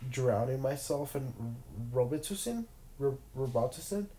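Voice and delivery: stuffy nose voice; congested from a cold; nasal sick voice. Real, not acted. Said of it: "my nasally voice".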